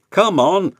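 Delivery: high, loud nagging call; coaches. A narrator's reading. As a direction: chivvy the late engine. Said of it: "said the coaches".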